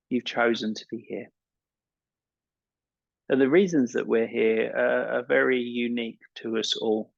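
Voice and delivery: calm meditation guide with long pauses; unhurried guiding voice, leaving space between phrases; guided meditation. Acted. Yoga teacher settling an evening class into relaxation, guided meditation.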